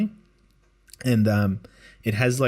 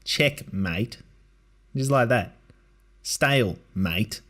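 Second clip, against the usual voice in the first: put-on Aussie accent. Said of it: "a really Aussie accent".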